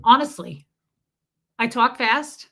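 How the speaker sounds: usual speaking voice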